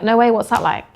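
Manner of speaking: lively no way, genuinely interested; curious, engaged. Shown as a demonstration. Salesperson reacting to the client, engaged and curious. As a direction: sound truly intrigued. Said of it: "Completely different tonality".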